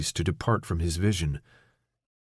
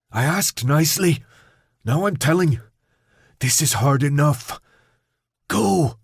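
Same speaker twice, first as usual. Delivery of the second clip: high, loud, strained; strained shouting; 5 semitones higher, 4 dB louder than usual. Acted. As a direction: force the words out, straining. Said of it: "Newt strained to speak".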